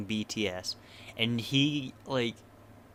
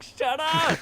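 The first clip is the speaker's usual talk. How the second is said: high exasperated shout; annoyed shout; 5 dB louder than usual. Retold or imitated. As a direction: snap it like you're fed up. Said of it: "And it's just like".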